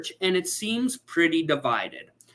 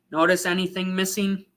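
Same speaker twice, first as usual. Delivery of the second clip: quick repeat; 3 semitones higher, faster than usual. Shown as a demonstration. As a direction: toss it off quickly.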